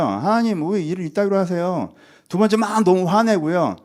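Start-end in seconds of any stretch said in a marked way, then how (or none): 0.0-1.9 mock-indignant, higher-pitched reproach; acted fault-finding complaint. Envious believer judging God, indignant complaint. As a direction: scold God like a dissatisfied critic. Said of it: "처음에 하나님을 평가하고요".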